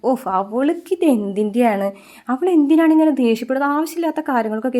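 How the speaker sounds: mock exasperated complaint; retold exasperation. Grandmother vexed at daughter. (നീരസത്തോടെ ഉറക്കെ ചോദിക്കുന്നത്)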